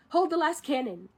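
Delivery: imitated command. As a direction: lightly act out a commander's order. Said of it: "he says".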